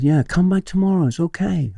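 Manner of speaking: put-on very high Hong Kong-accented voice; Miss Lynn. Head of English forgiving the late teacher, Hong Kong accent. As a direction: reassure lightly in an imitated Hong Kong accent. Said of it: "If I do the accent".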